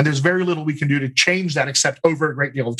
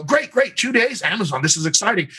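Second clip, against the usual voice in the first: mock excited; 5 semitones higher than usual. Actor to agent on the phone, mock excited. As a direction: fake delight at the booking news. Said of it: "And you go".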